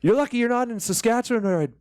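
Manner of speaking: imitating an enraged father threatening the photographer; dad's furious threat. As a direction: blow up like a dad who held it all in. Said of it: "he goes".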